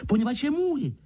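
put-on high, stung boyish anger; angry. A narrator's reading. Harry angrily claims his letter, high. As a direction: demand it angrily. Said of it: "řekl Harry navztekaně".

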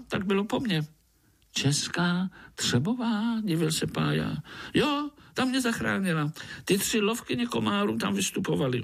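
high, lively storytelling mosquito; high mosquito telling his journey. Acted. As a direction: spin the train tale, excited.

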